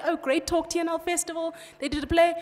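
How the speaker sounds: a hint of a complacent audience member; mock audience member. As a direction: send up the smug festivalgoer. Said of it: "You're gonna go home today".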